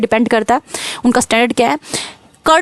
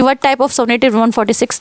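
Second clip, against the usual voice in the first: slow question read; much slower than usual. Shown as a demonstration. Teacher reads exam question.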